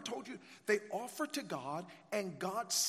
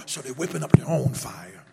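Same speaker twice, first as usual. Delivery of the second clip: preacher's shout; 5 semitones lower, 15 dB louder than usual. Real, not acted.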